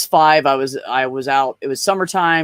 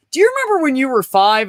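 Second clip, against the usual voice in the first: much higher, mother gently asking; mom's curious voice; 12 semitones higher, 4 dB louder than usual. Retold or imitated. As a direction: ask it like a mom with a fond story. Mom voiced asking later.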